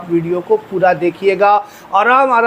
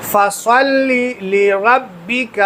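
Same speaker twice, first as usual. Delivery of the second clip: slow chanted فَصَلِّ لِرَبِّكَ; Quran recitation; much slower than usual. Shown as a demonstration. Teacher continues reciting the surah, slow chant. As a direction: recite slowly, melodic.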